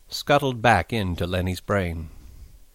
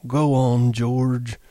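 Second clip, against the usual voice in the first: put-on high, loud, childlike urging; eager Lenny; 4 semitones higher, 9 dB louder than usual. A narrator's reading. Lenny urging George to scold him, eager high voice. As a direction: beg him eagerly to continue. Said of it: "Lenny looked eagerly at him".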